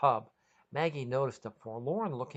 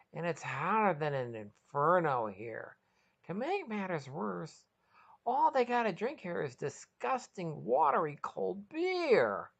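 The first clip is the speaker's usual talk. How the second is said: sheepish hungover voice; 6 semitones higher than usual. Acted. Hungover Sean calls girlfriend.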